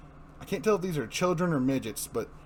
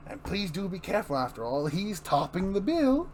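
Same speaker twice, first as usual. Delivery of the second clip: villain gloat; 4 semitones higher than usual. Acted. Joker voice gloating.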